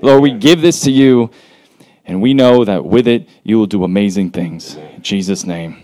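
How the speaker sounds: earnest, steady spoken prayer; public prayer. Real, not acted. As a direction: pray aloud for the group, phrase by phrase. Leads a prayer for the event.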